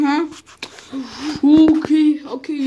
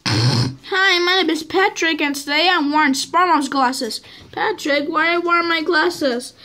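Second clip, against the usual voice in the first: playing Patrick; 4 semitones higher than usual. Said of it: "this is my best friend Patrick".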